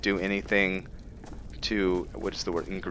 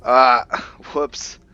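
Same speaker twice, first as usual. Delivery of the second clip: sudden loud ah then a quick higher whoops; startled oops; 5 semitones higher, 9 dB louder than usual. Real, not acted. Gamer reacting to an accidental mistake, startled. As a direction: caught off guard by his own slip. Fumbles a mistake mid-game.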